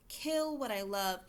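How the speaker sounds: KILL drawn out and weighted; stress on KILL. Shown as a demonstration. Teacher showing which word to underline, stress on Kill. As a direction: lean slowly on the word Kill. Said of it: "I want to stress kill".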